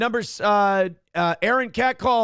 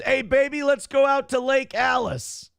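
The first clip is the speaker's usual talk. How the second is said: cheesy pickup line, pitched up; mock catcall; 7 semitones higher than usual. Host reading a listener's catcall, hammy and high. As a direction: lay on the sleazy charm.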